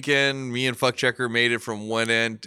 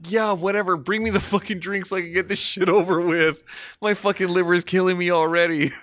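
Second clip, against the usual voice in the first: mock dismissive; 5 semitones higher than usual. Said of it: "I'm like".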